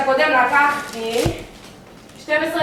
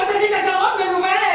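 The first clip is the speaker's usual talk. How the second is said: higher-pitched exasperated scolding; scolding yell; 5 semitones higher than usual. Acted. Invalid yelling at interrupting maid, exasperated. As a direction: rail at the servant, voice pitched up. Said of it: "תשתקי קצת שאוכל לצעוק".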